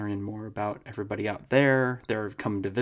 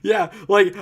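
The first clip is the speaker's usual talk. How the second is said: ordinary talk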